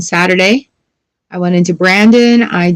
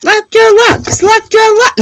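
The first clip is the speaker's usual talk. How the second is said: mock announcer voice. Reading a card in a voice.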